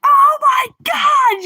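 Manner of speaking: high, loud drawn-out wail; shrieked, stretched-out retold outcry; mock scream. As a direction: imitate grandmother screaming in shock. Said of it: "She's screaming".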